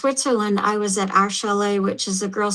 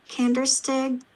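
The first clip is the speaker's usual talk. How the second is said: Oklahoma accent; 4 semitones higher than usual. Real, not acted. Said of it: "with my Oklahoma accent".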